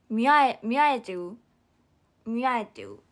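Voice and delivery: loud cutesy slurring, 見られてる turning into 見合えてる; punchy, babyish take on 見合えてる; hamster-speak. Retold or imitated. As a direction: imitate cute speech, dropping the r in 見合えてる. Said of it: "ハム語みたいになっちゃう".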